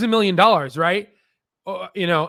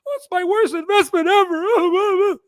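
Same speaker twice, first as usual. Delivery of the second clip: hammed-up retail investor wailing over worst investment; mocking panicked investor; 7 dB louder than usual. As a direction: whine like a small investor watching the stock drop.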